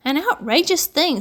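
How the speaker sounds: a mild flare of anger; violent outburst. A narrator's reading. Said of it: "said Uncle Benjamin violently".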